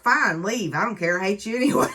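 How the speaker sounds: hammed-up spiteful brush-off; nasty. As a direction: toss it off like a bratty captive. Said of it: "she's just nasty".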